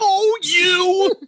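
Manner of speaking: flustered mock voice. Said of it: "mocking the teacher's reply".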